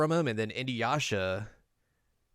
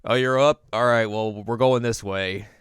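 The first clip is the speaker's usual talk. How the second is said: brusque call; 6 dB louder than usual. Retold or imitated. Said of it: "then he's like".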